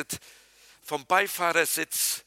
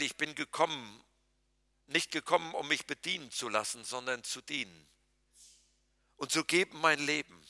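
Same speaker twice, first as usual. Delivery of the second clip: soft scripture quote; 2 semitones lower, 7 dB quieter than usual. Acted. Quotes Jesus softly.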